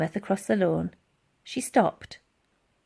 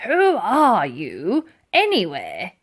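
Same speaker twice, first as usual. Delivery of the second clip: gruff sergeant major; 5 dB louder, slower than usual. A narrator's reading.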